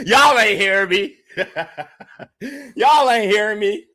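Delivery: laughing through the words. Real, not acted. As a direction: crack up while repeating it. Laughing at own joke.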